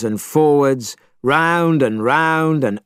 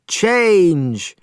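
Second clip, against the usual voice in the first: sharp raised magic command; shouted command; 6 semitones higher than usual. A narrator's reading. Storyteller's witch shouting her spell. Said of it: "she shouted".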